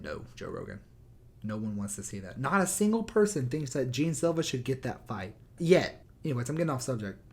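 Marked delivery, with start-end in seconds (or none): 0.0-6.0 deadpan Anik. Retold or imitated. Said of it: "he was just like".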